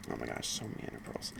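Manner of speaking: low, breathless whisper to herself; whispered aside. Real, not acted. Telling viewers her story, she whispers at her own stumbles. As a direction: whisper it, annoyed at your own slip.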